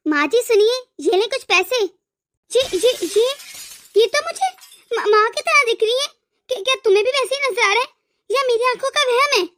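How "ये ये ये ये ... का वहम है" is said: startled wife spotting a woman who looks like her mother; stunned recognition. Acted. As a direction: catch your breath as if you've seen your mother. Wife sees mother-like beggar woman.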